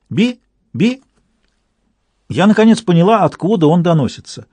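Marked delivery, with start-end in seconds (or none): 0.1-1.0 much higher squeaky bird call; an eerie chirp coming closer; высокий птичий писк. A narrator's reading. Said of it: "голос раздался ещё ближе".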